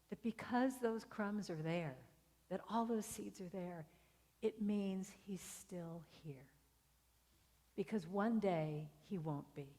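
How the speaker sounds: slow, softened, with weighty pauses; hushed, heartfelt storytelling; tender, poignant. Real, not acted. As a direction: let the realisation land gently. Wife's poignant realisation.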